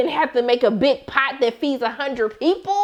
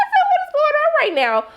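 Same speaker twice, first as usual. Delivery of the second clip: much higher, laughing shriek; laughing disbelief; 3 dB louder than usual. Real, not acted. Viewer laughing at the mom's dance moves, shrieking high.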